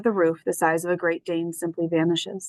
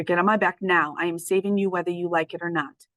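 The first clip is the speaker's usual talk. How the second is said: choked voice. Acted. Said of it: "my choked voice scares her".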